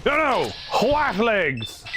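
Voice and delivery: high-pitched startled no; alarmed cry. Real, not acted. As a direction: yelp in alarm. Ally burning in a game.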